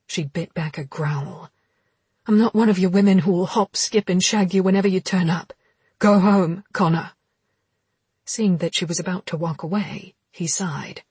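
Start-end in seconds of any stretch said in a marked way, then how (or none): 2.3-7.1 angry. Acted. Heroine angrily rebuffs him.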